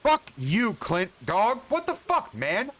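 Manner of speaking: cursing the slow smith, pitch spiking high; exasperated outburst. Real, not acted. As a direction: snap at the blacksmith. Angry at slow blacksmith.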